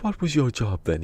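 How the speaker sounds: hammed-up Texan asking his job; Texan accent. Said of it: "Sound more like a Texan".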